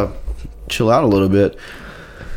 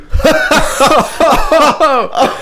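failed deep laugh; 4 dB louder than usual. Shown as a demonstration. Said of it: "we're gonna start laughing more deep voice".

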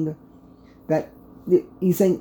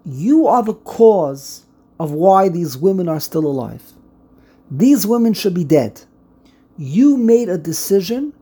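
accusation. Shown as a demonstration. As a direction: lay the blame squarely. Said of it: "it's a statement".

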